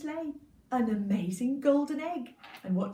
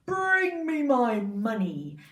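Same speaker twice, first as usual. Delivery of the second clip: loud, slow giant demand; giant's order; 7 dB louder, slower than usual. Acted. Giant ordering his wife to fetch money, loud and slow.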